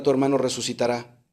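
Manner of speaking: gently reassure, retelling tender words; retold in a soft-edged, tender tone; tender reassurance. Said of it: "Le dijo con ternura".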